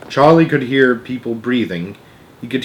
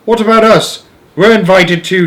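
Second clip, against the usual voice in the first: high, louder protesting granny; indignant old woman; 8 semitones higher, 6 dB louder than usual. Acted. Grandma Georgina protesting to Wonka, high and louder. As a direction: protest from the bed.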